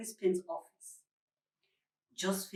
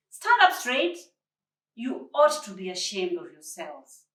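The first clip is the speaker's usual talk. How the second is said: louder, higher stern telling-off; stern scolding; 6 semitones higher, 5 dB louder than usual. A narrator's reading. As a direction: call the grown men out like naughty boys. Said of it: "the stern voice of Josephine".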